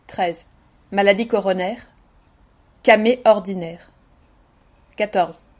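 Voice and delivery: deadpan numbered catalogue reading; automatic list recital. Shown as a demonstration. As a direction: recite each item like an official list, pausing between entries. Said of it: "d'une manière un petit peu automatique".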